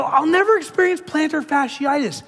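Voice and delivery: high, loud defiant recitation; hammed-up triumphant echo; parroting the letter. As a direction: fire the line back as a shield. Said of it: "so I go".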